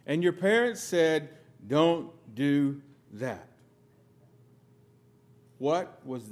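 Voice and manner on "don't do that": parent's warning. Retold or imitated. Parents scolding a young child.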